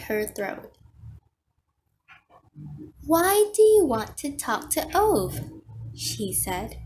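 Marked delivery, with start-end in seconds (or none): 3.0-5.5 raised, higher-pitched question; calling through a door. A narrator's reading. Visitor asks through the garage door, calling out. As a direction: project it louder to someone behind a door.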